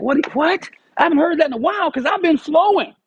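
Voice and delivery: high incredulous what, then rushing on; startled disbelief. Retold or imitated. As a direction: caught off guard, repeating it in shock. Startled retold reaction.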